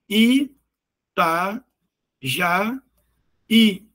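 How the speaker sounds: "i, ta, ja, i" with a pause after each syllable. Shown as a demonstration. Teacher showing separated vowels to students, "i, ta, ja, i" syllable by syllable. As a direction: split "i, ta, ja, i" into separate beats. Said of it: "em sílabas distintas. Por exemplo".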